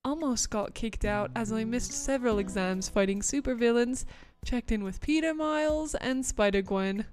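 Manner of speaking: put-on British accent, storytelling superhero intro; English accent. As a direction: introduce yourself as London's hero in a British accent. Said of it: "here's my, uh, my English accent".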